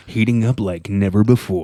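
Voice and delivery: mock strip club announcer; lightly voiced sleazy club DJ; creepy strip club DJ. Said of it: "creepy strip club D J voice".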